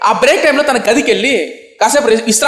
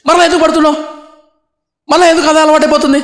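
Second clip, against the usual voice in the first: preaching rebuke; 7 semitones higher than usual. Real, not acted. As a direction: press the question home from the pulpit. Preacher challenges the listener.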